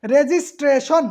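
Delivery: "রেজিস্ট্রেশন" slowly, with sh in the last syllable; sh-sound demo. Shown as a demonstration. Teacher shows students the spelling rule, "রেজিস্ট্রেশন" slow with final "-shon". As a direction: draw out "রেজিস্ট্রেশন", ending in "-shon". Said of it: "এখানে দন্ত স দিতে পারবেন না".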